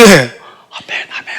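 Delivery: very slow, drawn-out absent amen; drowsy amen. Retold or imitated. Deacon nodding along in sermon, sleepy drawn-out amen. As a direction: drag it out like someone half asleep in the pew. Dozing churchgoer pretending to listen.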